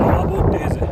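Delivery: high, loud call over the wind; shouting over wind. Real, not acted. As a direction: raise the voice above the gusts. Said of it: "इससे ज़्यादा तेज़ मैं बोल नहीं सकता".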